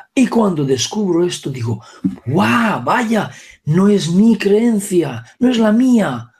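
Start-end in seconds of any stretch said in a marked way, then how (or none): 2.3-6.3 higher, slow amazed outburst; amazed exclamation. Retold or imitated. Speaker reliving the moment he found the belief wasn't his, amazed. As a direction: let the wonder spill out. Retelling joy of discovery.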